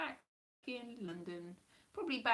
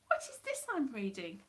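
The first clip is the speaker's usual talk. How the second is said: mock disbelief; 3 semitones higher than usual. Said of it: "you're just like".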